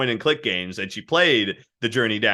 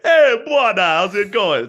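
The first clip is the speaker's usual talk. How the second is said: much higher and louder, cheerful Trinidadian greeting; Quito's voice; 12 semitones higher, 9 dB louder than usual. Retold or imitated. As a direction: greet your buddy like a happy-go-lucky guy. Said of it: "He plays a character called Quito".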